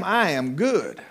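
slow, satisfied declaration; imitating a fully provided-for apostle; acted contentment. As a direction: draw out each word as if wanting nothing. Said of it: "He's telling them".

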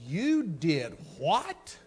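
retold husband's explosive tirade, yelling; furious rant. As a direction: blow up at your young wife over the money. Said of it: "I went".

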